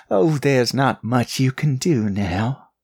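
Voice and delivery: words pushed through clenched teeth; through gritted teeth. A narrator's reading. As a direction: speak with jaw clamped shut. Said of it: "the woman said through gritted teeth".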